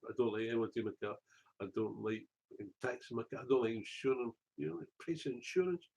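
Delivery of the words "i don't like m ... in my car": fast, laughing through the line; laughing repeat. Shown as a demonstration. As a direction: rattle it off with a laugh. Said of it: "laughs, repeats faster".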